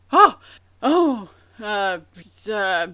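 mock old-world English, hammed up; hammy stage actor. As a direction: ham it up like a Shakespearean actor. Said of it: "I don't speak old world English".

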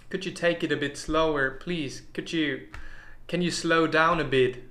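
fairly quick, casual English; English phrase. Shown as a demonstration. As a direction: ask politely in English. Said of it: "Im Englischen könntest du sagen". (lockeres, zügiges Englisch)

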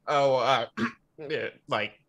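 hesitant filler with throat-clearing; stalling. Acted. Caleb stalling when asked his opinion, awkward hesitation. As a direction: play for time between halting words. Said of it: "a moment to stall by being like".

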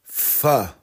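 "pho" as "fuh"; "pho" like British "fur", R silent; correct pronunciation. Shown as a demonstration. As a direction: say "pho" with an "uh" vowel, no long O. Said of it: "It's actually pronounced".

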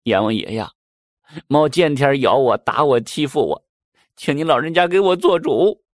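a mouse whimpering to be heard, lightly acted; mock crying plea. Mouse tearfully begs King Yama for justice, mild mock crying. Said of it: "这耗子就哭了".

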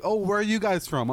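high-pitched girl imitation; chatty tourist girl. Tourist girl approaching other tourists, high chatty imitation. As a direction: imitate her quizzing strangers in high voice. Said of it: "goes to like, other tourists and says".

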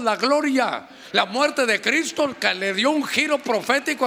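fervent sermon delivery; preaching. Acted. Pastor preaching fervently to his congregation. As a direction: preach it to the brothers.

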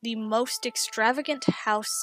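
game master scene narration. Acted. GM narrates a solo scene with voices.

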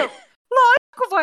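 high, slow drawn-out of course; obvious, of course. Retold or imitated. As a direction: say it as if it's the most obvious thing. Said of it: "É".

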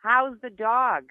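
slow repeat for a poor listener; speaking up. Real, not acted. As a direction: draw it out so they can hear. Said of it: "can you speak a little louder".

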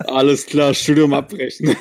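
laughing. Real, not acted. Student laughing at divorce news. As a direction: joke through a laugh. Jokes about quitting studies.

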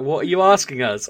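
high, loud baffled question; baffled workmen. Retold or imitated. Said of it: "they were looking at me like".

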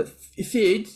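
high, laughing mock accent. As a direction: giggle through the words in a silly accent. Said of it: "my impression of a singer doing a Swedish accent equivalent".

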